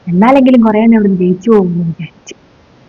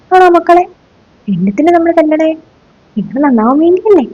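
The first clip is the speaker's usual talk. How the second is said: mock sweet; 7 semitones higher than usual. Teacher feigns sweetness after caning.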